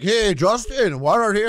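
high, heckling call-out; heckler. Acted. People going up to Trudeau, high-pitched heckling. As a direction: pester a politician from the crowd, high-pitched. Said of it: "They're like".

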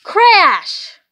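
loud, high burst; dramatic exclamation. A narrator's reading. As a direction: slam the word like a cymbal. Dramatic cymbal moment.

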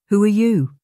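high, loud startled cry; startled old aunt asking who he is; startled question. A narrator's reading. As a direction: pull back in fright. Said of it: "drawing away into the chair".

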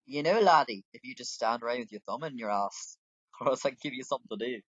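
mock-scolding character, loud at the opening; lightly voiced innkeeper. Innkeeper chiding laddie for standing around, lightly acted. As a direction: chide the idle helper in character.

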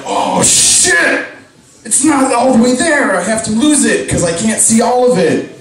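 high-pitched mock panic; scared. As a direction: blurt out a panicked realisation, pitch jumping up. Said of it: "that's what scares you".

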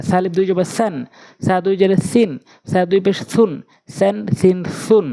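স্যান, সিন, সুন with tongue tip at the teeth. Shown as a demonstration. Teacher drills correct articulation, স্যান, সিন, সুন with tongue tip to teeth. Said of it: "জিব্বার আগা দাঁতের আগা".

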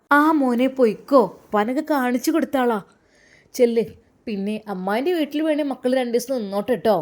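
acted over-eager permission; eager send-off. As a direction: urge him off briskly. Aunt hurries him off to go.

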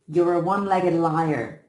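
sneering taunt. A narrator's reading. Bully taunts crippled brother.

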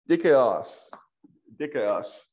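dikaios said twice, clearly, falling at the end; teacher repeating dikaios slowly on request; careful repeat. Shown as a demonstration. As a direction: spell out dikaios by sound for the student. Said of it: "How'd you pronounce that again?".

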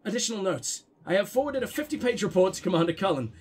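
flat, quiet droning woman reading a report; monotone woman voice. Acted. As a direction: read it dull and lifeless, like a bored clerk. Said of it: "gotta do my boring monotone woman voice".

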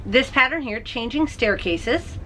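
ordinary talk, nothing marked

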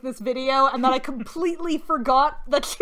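high, loud laughing fit breaking into words; real laughter at a bad trailer; helpless laughter. Real, not acted. Laughing hard at a trailer while talking to a friend.

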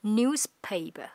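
newspaper said slowly, with a Z in the middle; slow teacher model. Shown as a demonstration. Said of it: "có âm Z ở giữa".

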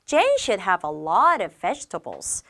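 You should save money spoken very slowly, word by word; slow teacher read-aloud; slow model sentence. Shown as a demonstration. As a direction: read it slowly for learners to copy. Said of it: "나의 충고라고 한다면".

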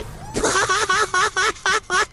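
long, high peal of laughter. Real, not acted. Player amused by mini crewmate, high laugh.

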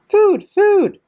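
put-on very high, loud baby-bird cries; little hatchling squeal; tiny peeping gosling. A narrator's reading. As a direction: peep insistently like a hungry chick. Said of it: "That tiny voice was more than".

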